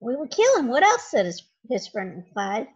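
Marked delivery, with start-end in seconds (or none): 0.0-1.1 menacing thief. Acted. Thief voiced in a read story.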